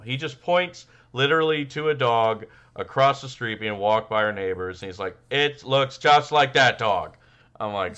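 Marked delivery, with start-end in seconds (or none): 5.3-7.2 put-on slow, higher little-boy voice; kid voice. Kid pointing at neighbors' dog, slow kid voice. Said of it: "I'm trying to do a kid voice".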